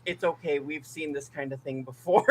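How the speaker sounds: quiet, soothing retold aside; soft reassurance. Priest to a confused patient's family, quietly reassuring. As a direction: talk the patient down softly.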